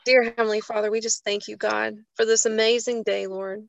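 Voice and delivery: earnest spoken prayer, falling to a hush on Lord. Acted. Host opening the group prayer, earnest and reverent. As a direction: pray it humbly to God.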